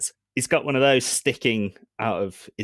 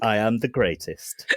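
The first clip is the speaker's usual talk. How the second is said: boastful deadpan computer; calm AI bragging; HAL robot voice. Acted. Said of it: "My robot voice?".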